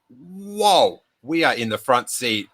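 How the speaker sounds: wowed, lightly re-enacted; retold stunned awe. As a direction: act out being amazed, then settle. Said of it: "she was so stunned".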